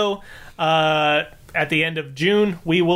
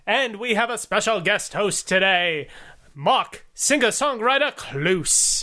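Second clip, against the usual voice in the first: mock announcer; 3 semitones higher than usual. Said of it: "That really is a terrible accent".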